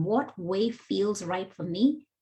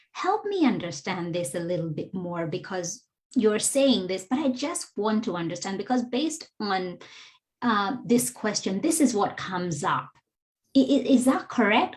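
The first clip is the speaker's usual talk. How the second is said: gentle inquiry. Shown as a demonstration. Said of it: "with the lens of".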